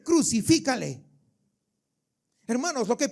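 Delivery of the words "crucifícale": crowd cry. Acted. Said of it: "la multitud ... dice".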